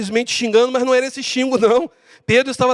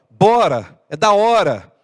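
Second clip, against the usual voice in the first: light Paulistano slang delivery; hint of a Paulistano accent; São Paulo accent; slower than usual. Shown as a demonstration. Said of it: "O camarada de São Paulo".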